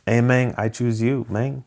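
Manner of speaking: put-on amateur East LA accent, playfully done; cholo accent. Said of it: "one of the Cholos".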